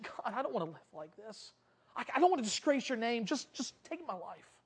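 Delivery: soft, halting plea to God; acted weary surrender; broken prayer. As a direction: give up quietly, faltering. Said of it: "Elijah is so broken over his sin".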